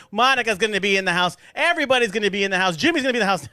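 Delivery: hype-man shout-out building from name to name. Acted. Hyping up guests at event.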